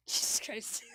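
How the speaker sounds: loud laughing shock; startled laugh. Real, not acted. Player scared by the cat, startled laughing curse. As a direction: laugh off the fright.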